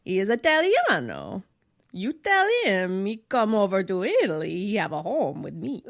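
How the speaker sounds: put-on thick Italian accent. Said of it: "she was like".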